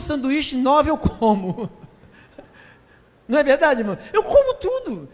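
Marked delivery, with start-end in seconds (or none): 4.1-5.1 laughing boast. Real, not acted. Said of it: "laughing boast".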